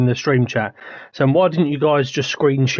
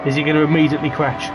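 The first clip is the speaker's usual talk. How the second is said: excited race call; urgent play-by-play; motorsport commentator; 3 semitones higher than usual. Real, not acted.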